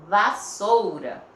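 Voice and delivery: "Vassoura" slow and loud; slow word demonstration. Shown as a demonstration. Teacher presenting the next word to pupils, slow and emphatic. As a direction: announce "Vassoura" slowly and firmly. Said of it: "Separou a sílaba".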